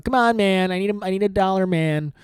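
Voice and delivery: a hint of a mooching homeless guy; begging loser voice. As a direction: plead for a dollar like a down-and-out guy. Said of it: "Dave Chappelle does a voice like this too".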